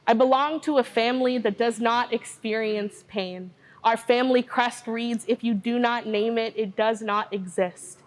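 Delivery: measured, rhythmic poem recital with even pitch; spoken word poetry. Acted. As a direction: deliver it as a poem, steady and deliberate. Begins the next spoken word poem.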